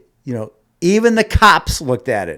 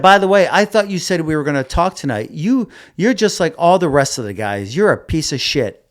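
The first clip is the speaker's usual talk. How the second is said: louder, higher, an accusing rant; angry accusation; 3 semitones higher, 4 dB louder than usual. Retold or imitated. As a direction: tear into him, fed up and accusing. Her angry text acted out.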